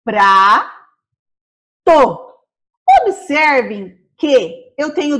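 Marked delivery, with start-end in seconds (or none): 0.0-0.7 "Prato" broken as "pra-to"; syllables split apart. Shown as a demonstration. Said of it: "Vamos separar".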